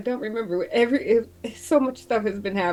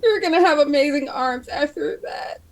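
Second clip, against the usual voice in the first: crying; 6 semitones higher than usual. Acted. Both characters sobbing.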